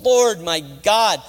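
impassioned plea to the Lord; crying out to God. Acted. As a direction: cry out in prayer, demanding an answer. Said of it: "he cried out to the Lord".

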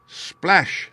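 high, bright splash; splash sound. A narrator's reading. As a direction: make the splash pop out. Duck jumps into water.

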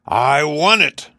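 high, loud, drawn-out royal tantrum; screamed demand. A narrator's reading. King demands his lost belt, screaming it slowly. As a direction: cry it out high and stretch it. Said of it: "screamed the king".

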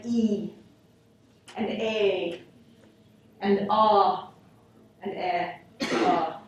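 e, a, ah, eh with spread lips; unrounded vowels. Shown as a demonstration. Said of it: "produced with non-round circle lips like".

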